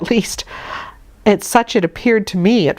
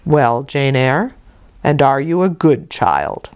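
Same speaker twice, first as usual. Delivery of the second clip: low, slow, stern questioning; stern clergyman; 4 semitones lower, slower than usual. Acted. Brocklehurst quizzes little Jane, low and slow. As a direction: probe the child gravely.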